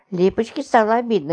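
plain reading voice

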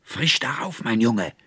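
high, loud screech urging on; shrieking witch. A narrator's reading. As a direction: egg the cat on with a hag's shriek. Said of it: "kreischte die Alte". (kreischende Alte, hoch und laut)

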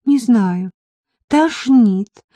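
high, queasy voice; sick voice. A narrator's reading. Marika answering her worried friend by phone, sick voice. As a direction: moan it out as if nauseous. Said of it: "сказала Марийка больным голосом".

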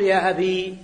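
يا أبي with a clear long final ee; keeping the ya. Shown as a demonstration. Teacher shows the vocative keeping the ya. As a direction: hold the ي at the end of أبي. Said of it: "بإثبات الياء".

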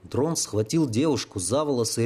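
plain reading voice

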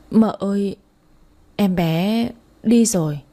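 slow, a touch of a quivering lip; mild tearful. Acted. Maid slowly telling the mother the baby is gone, mildly tearful. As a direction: break the news slowly, near tears. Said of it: "mếu máo".

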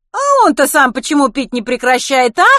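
loud, high-pitched challenge; angry demand. Acted. Kitty questions Len's own drinking, angry and loud. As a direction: fling the question back angrily. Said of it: "сердито вопрошала Китти".

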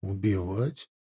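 low, soft, icy echo of his word; cold question. A narrator's reading. Soldier coldly questioning his knifepoint captive. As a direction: ask it back coldly, without warmth. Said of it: "холодно спросил я".

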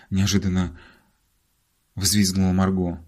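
usual speaking voice

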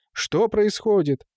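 high, drawn-out astonished question; startled exclamation. A narrator's reading. Watchman shown the dead cat, exclaiming in shock. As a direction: ask it aghast, stretching the words. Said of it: "воскликнул Гуркха".

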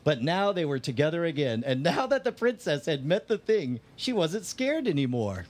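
measured storybook reading; reading aloud verbatim. Real, not acted. Friend reads the fateful page verbatim, storybook reading. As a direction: read it out like a picture book. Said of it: "I'm gonna read this part verbatim".

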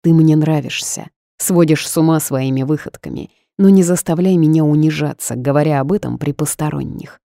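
ordinary delivery, nothing marked

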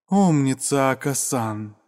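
breathless, catching her breath. Acted. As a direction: gasp it out, winded. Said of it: "стараясь восстановить дыхание". (запыхавшись, переводя дыхание)

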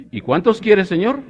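put-on high, loud pharmacy girl falsetto; high shop girl voice. Comedian voicing the pharmacy girl asking the customer, high and loud. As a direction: squeak it out like a shopgirl.

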